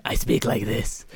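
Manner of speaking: slow, growly superhero rasp; Bruce Wayne. Retold or imitated. One Batman explaining his Bruce Wayne voice, slow growl. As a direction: growl it slowly, the voices comically flipped. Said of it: "when I'm Bruce Wayne".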